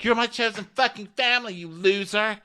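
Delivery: high, fast put-on rant; Ramona impression. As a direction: fire it off high and quick. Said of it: "And she's like".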